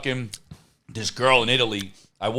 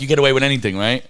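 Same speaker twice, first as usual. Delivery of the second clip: louder, retold Russian accent; 3 semitones lower, 4 dB louder, faster than usual. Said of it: "Russian accent".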